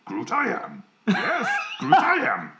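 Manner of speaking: high, hammy backwards-talking alien; squeaky little Jedi master; Yoda voice. Retold or imitated. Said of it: "I did a Yoda".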